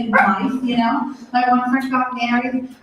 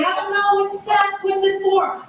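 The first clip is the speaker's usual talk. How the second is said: put-on lightly higher kid voice; child voice; 5 semitones higher than usual. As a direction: ask like a curious seven-year-old. Little Joey voiced.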